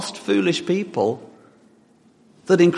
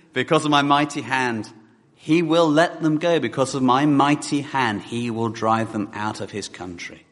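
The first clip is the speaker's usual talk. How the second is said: scripture reading; 3 semitones lower, faster than usual. Acted. Reads scripture aloud.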